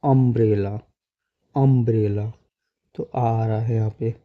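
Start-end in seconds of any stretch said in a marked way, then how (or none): 0.0-2.3 teacher's careful, even "अम्ब्रेला"; pronunciation demo. Shown as a demonstration. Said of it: "जैसे हम पढ़ते हैं ना".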